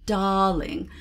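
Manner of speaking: hint of a French accent, drawn out; Auntie Claus. Shown as a demonstration. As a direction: stretch "darling" with a touch of French. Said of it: "make Auntie Claus sound like".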